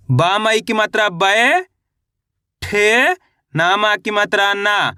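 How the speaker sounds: 'बय', 'ठे', 'ना' धीरे और खींचकर, अलग-अलग; 'बय' यानी 'बै' को लंबा, चढ़ते सुर में, फिर 'ठे' अलग, 'ना' गिरते सुर में; अक्षर-अक्षर हिज्जे. Shown as a demonstration. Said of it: "एक अक्षर का उच्चारण करके इनको पढ़ रहा हूँ". (बच्चों को पढ़ाने जैसे 'बय', 'ठे', 'ना' तोड़कर बोलें)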